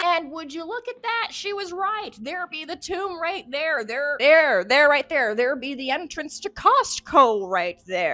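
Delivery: high, loud crowing discovery; hammed-up excitement. Streamer finds the Costco entrance, hammed-up excitement. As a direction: point it out with exaggerated amazement.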